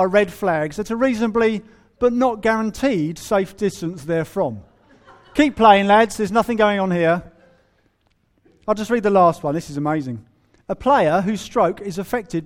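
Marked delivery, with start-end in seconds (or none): 5.3-7.2 louder, hammed-up jolly club man; mock cheerful official. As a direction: cheer the golfers on through the bombs. Mock club official urging play.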